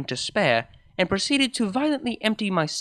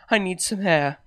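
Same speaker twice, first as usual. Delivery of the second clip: louder, firm and final; 3 semitones higher, 5 dB louder than usual. Acted. Shaken mare tells her girlfriend she's leaving, firm. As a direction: state it flatly, no room for argument. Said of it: "I said firmly".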